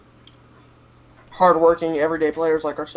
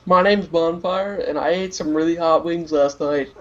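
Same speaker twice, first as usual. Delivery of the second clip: Tactical Oyster impression; slower than usual. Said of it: "Tactical Oyster impression".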